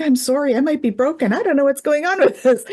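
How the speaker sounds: high-pitched, mock-panicked apology; flustered apology. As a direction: act out being thrown and apologetic. Retells her flustered apology to client.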